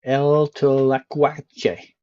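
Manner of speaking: slow, careful mock Spanish reading. Streamer reading Mexican road signs aloud, slow mock Spanish. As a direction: sound out the sign like a proud native. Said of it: "I'm gonna read every sign out in perfect Spanish".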